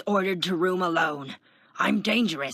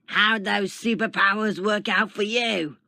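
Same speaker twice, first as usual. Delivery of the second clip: loud, high jeering growl; bear-like growl; 8 semitones higher, 8 dB louder than usual. A narrator's reading. Tiny man in a cell taunts Taskmaster, loud growl. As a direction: growl it out loud at a passing prisoner. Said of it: "growled like a bear".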